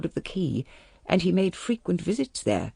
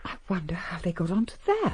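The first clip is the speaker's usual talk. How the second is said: breathy half-voiced murmur to herself; a hushed private wonder; whispered aside; 3 dB quieter than usual. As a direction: mutter it under the breath, as if no one should hear. Muttered aside during tense phone call.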